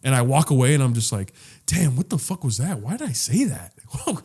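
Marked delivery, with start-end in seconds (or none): 1.7-4.2 self-questioning. Retold or imitated. Walking away from people and questioning himself, mock dismay. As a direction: retell baffled questions to yourself. Recalls questioning own awkward behaviour.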